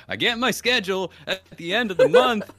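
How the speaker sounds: a mock answering machine, robotic. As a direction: read it like a canned machine greeting.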